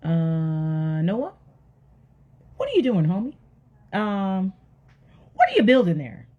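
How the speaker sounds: puzzled neighbors. Acted. Neighbors asking Noah what he is building, hesitantly puzzled. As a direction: tiptoe into a baffled question.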